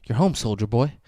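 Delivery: very soft, uncomfortably intimate mock reassurance; whispered under the table to unsettle; creepy hushed whisper. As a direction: whisper it close, coaxing. Creepy uncle murmurs under the table.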